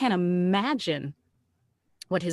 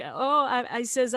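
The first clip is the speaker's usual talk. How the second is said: high, mock-drunk oh; imitated drunk man; 5 semitones higher than usual. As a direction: play a tipsy man lightly. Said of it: "he's drunk off his ass".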